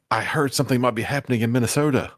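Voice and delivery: all-caps shouting. Acted. GM reads all-caps comment.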